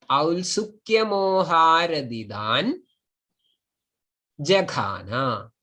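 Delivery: "aradidan" rising, long pause, then "jakhana" falling; split in two. Shown as a demonstration. Teacher showing one possibility of splitting, two separate pieces. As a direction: break clearly before "jakhana". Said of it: "one possibility of splitting it".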